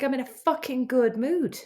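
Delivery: mildly upset retold outburst; tearful insistence. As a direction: insist you're fine, a touch weepy. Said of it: "you definitely sound like you're in a good mood".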